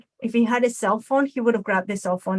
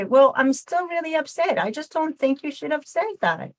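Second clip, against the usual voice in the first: higher voice telling of hurt feelings; hurt, still upset; 5 semitones higher than usual. Retold or imitated. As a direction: let them know it still stings. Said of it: "I say".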